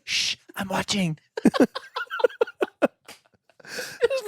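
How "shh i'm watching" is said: a hint of a put-on hushing voice; mock shush. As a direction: brush them off mid-movie. Friend shushing in the movie.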